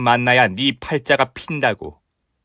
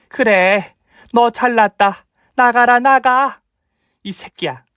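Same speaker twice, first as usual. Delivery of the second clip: furious shout; 7 semitones higher, slower than usual. Acted. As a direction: throw him out, shouting. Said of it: "나가라고 소리치셨어요". (화나서 나가라고 소리치는 시어머니)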